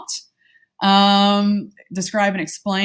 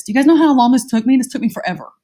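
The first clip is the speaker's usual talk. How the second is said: exasperated outburst; 5 semitones higher, 4 dB louder, faster than usual. Real, not acted. Exasperated outburst about making slides.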